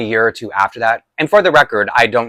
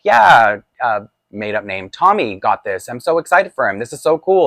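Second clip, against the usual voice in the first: mock kid excitement; 3 dB louder than usual. Boy telling dad about cousin's toy, eagerly gushing. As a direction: gush like a happy little kid.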